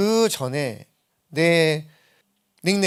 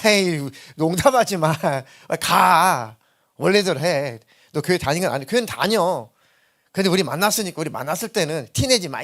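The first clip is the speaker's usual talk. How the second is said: put-on louder, scoffing old friends; 3 semitones higher, 5 dB louder than usual. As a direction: brush off his faith, laughing it away. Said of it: "이랬다고요". (농담하지 말라며 크게 핀잔주는 친구들)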